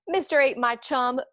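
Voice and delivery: a lightly voiced pouty fish; glum fish reply. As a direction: plead like a sulky fish. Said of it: "says the fish to his friend".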